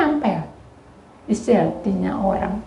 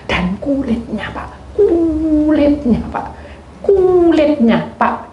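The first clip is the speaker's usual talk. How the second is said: kulitnya stretched slow and higher; slow insistent repetition; 8 semitones higher, much slower than usual. Retold or imitated. Youth urging the man about the peel, slow. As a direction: drag out kulitnya, pleading.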